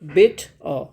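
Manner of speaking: "बेट अ" split into two syllables, a short gap before अ; अक्षर तोड़कर. Shown as a demonstration. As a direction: say "बेट", pause briefly, then a separate "अ". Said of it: "बना दें". ("बेट अ" को दो अलग अक्षरों में तोड़कर)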